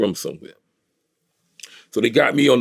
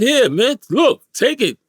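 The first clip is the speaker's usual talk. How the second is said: high-pitched, insistent re-enactment; acted urgent pleading; 13 semitones higher, 4 dB louder, slower than usual. Robbery victim acting out giving it up, urgent pleading. Acts out handing over the money.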